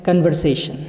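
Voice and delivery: कन्वर्सेशन with a schwa start, kənvarseshan; wrong Indian pronunciation. Shown as a demonstration. Teacher mimicking the common wrong Indian way. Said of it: "ना तो British है और ना ही American है".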